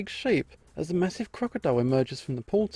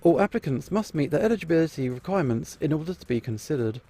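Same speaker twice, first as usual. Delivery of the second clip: upbeat commercial voiceover; ad read. Acted. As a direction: sell it like a TV ad. Reads the casting advertisement.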